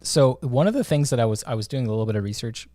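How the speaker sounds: burpy, interrupted speech; words broken by burps; talking through burps. Real, not acted. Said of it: "I'm burping, talking through burps".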